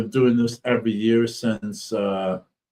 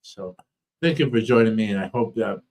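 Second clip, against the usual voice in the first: speech thick from a swollen tongue; talking through a swollen, sore mouth. Real, not acted. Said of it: "My, my tongue is swollen".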